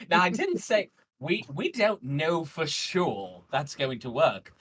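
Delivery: high, loud, drawn-out protest; loud objection. Acted. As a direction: push back loudly, stretching the words. Council member objecting in character.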